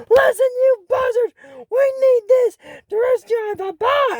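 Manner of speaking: put-on high-pitched, bossy girl voice; young girl ordering the vulture master, high and demanding; lightly voiced bossy girl. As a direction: boss the old bird around in a high girl's voice. Princess scolding vulture mentor.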